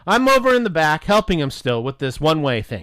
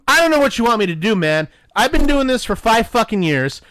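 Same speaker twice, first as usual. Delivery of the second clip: raised-pitch, worked-up retelling of an argument; exasperated retort; 5 semitones higher than usual. Retold or imitated. Clerk defending his experience to a doubting plumber, exasperated. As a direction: push back in frustration, insistent.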